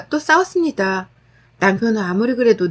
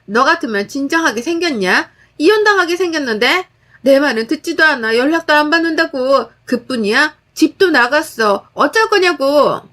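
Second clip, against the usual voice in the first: frantic yelling; 3 semitones higher than usual. Acted. Sister-in-law keeps yelling.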